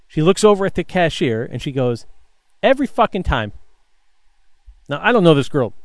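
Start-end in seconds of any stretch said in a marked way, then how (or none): 2.6-3.5 higher, fed-up outburst; exasperated. Retold or imitated. Worker complains to the cashier at the sight of bottles, exasperated. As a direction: throw it upward in mock exasperation. Exasperated customer, head thrown back.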